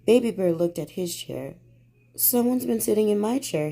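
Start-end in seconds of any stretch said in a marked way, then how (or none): 2.2-3.7 cried. Acted. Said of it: "he cried".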